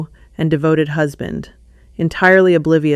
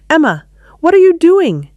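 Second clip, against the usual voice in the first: hissed; 12 semitones higher, 6 dB louder than usual. Acted. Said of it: "he hissed from his seat".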